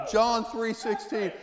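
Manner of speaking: John three sixteen slow and shouted; emphatic reference. Real, not acted. Preacher announcing the verse, slow shout. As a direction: proclaim John three sixteen slowly, each word hit. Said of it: "I've known that since".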